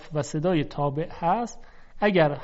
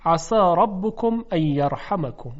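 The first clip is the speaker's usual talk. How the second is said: Quranic recitation; 3 dB louder than usual. Shown as a demonstration. Teacher recites verse.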